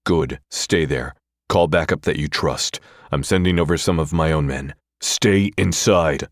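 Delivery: bark. Acted. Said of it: "I bark".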